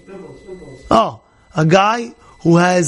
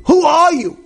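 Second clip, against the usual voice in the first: angry repeat; 9 semitones higher than usual. Retold or imitated. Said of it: "now he's flipping out".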